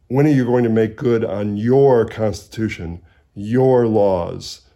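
"your" hit loud and stressed each time; emphatic your. Retold or imitated. Quoting Douglass demanding the Republicans keep promises, emphatic "your". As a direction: press every "your" like an accusation. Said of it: "uses the word your in a very emphatic way".

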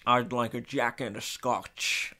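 slow attempt at a Scottish accent; Sean Connery. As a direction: order it in a slushy mock-Scottish voice. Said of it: "He's got a Scottish".

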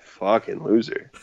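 wrestler trash-talk voice, put-on timbre; Roman Reigns impression. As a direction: sneer it like a heel wrestler. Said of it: "Roman Reigns".

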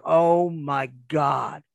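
very slow, drawn-out "Oh my God"; stunned disbelief. Retold or imitated. Hearing from Harley he'll be gone six months, slow stunned disbelief. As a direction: let the shock stretch every word.

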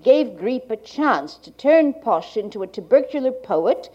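like a 1980s archival tape. Real, not acted. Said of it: "to Gallant's reading".

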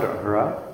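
r rolled on the tongue. Shown as a demonstration. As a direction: trill the r. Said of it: "the sound is like a rolled R sound".

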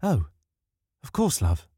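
a lightly voiced, obliging old lady; be the eager-to-please house; homely house voice. A narrator's reading. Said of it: "the house replied".

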